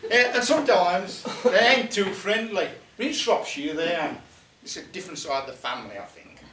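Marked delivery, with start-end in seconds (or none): 0.1-2.7 chuckling while talking, a bit fast; laughing through it. Real, not acted. Teller teasing the audience about goblin looks, laughing. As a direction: laugh along with the crowd as you tease them.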